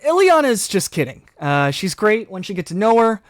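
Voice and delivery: put-on breezy teen covering for her; class clown voice. Bobby smooths things over.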